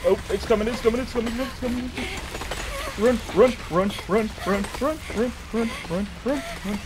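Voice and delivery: panicked. Real, not acted. Monster approaching, fleeing.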